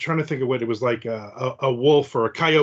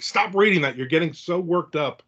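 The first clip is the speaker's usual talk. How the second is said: mild mock scolding wife; 2 semitones higher than usual. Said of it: "She's like".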